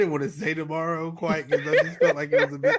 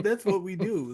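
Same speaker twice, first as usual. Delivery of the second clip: put-on Russian accent; 2 semitones higher than usual. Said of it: "Your freaking Russian accent".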